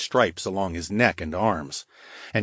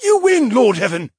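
choked surrender; 8 dB louder than usual. Acted.

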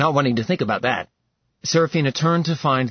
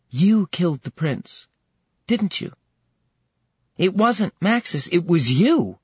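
higher pitched, rising disbelief; shocked accusation; 7 semitones higher than usual. Acted. Seraphina confronts Ilarion about the prince, shocked and high. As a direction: voice climbing as the truth dawns.

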